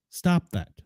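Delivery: put-on grumpy old man scolding; stern cranky old man. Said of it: "I sound like an old man".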